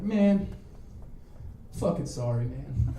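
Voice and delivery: mock tearful, grudging apology; sniffling apology. Sniffling skinhead apologizes to his victim, mock tearful. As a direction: imitate a beaten guy sniffling out sorry. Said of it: "Neil's kinda sniffling".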